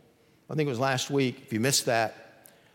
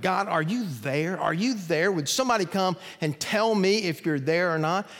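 crying out to God; 5 semitones higher than usual. Retold or imitated. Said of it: "just crying out to God".

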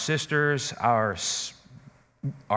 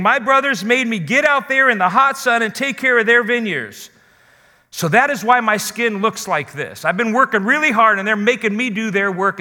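voicing the burdened woman; 3 semitones higher than usual. Preacher voicing the woman's complaint.

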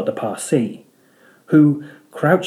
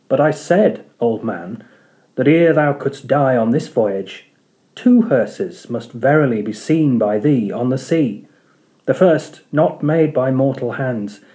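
Parsee prophecy. Acted. Parsee foretelling the hearses to Ahab, prophetic. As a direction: intone it like a seer.

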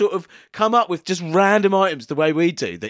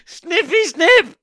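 hammed-up doom announcer; 8 semitones higher than usual. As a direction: play the butcher's arrival like a horror trailer. Theatrical villain announcer bit.

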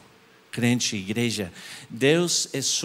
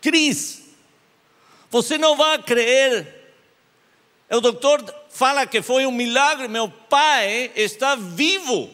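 high, loud and thrilled; retelling a friend's excited phone call; excited news; 11 semitones higher, 5 dB louder than usual. Retold or imitated. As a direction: burst out with the good news. Friend calls with miracle news.

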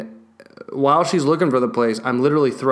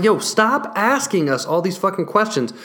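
higher, louder, building angry rant; exasperated rant; 7 semitones higher, 3 dB louder than usual. Retold or imitated. The owner to the vet staff stalling, a higher, louder exasperated rant. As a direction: vent it at the staff.

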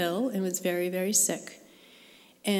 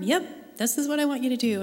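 God's reply; 5 semitones higher than usual. Retold or imitated. God's reply voiced in story.

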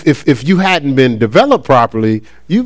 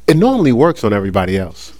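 laughing quote; 7 semitones lower, 4 dB quieter, faster than usual. Retold or imitated. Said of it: "this is his exact words".

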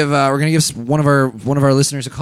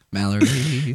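whisper; 4 dB quieter, slower than usual. Real, not acted. Whispering while call rings.

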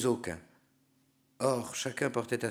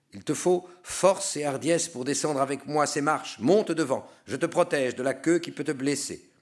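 higher, louder, rousing order; urging command; 5 semitones higher, 5 dB louder than usual. A narrator's reading. Guide tells the narrator to mount the dragon, urging command. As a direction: urge him on with firm protective force.

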